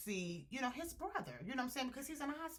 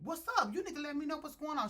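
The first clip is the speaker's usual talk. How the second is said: raised, fast retold demand, half yelled; mock hollering; 6 semitones higher, faster than usual. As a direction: imitate him hollering at her, pushing fast. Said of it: "he hollering".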